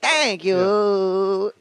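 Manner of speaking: high, stretched thanks in fake Irish; put-on joke Irish accent; mock "Irish guy" accent. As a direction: stay in the bogus Irish accent. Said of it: "really good Irish accent".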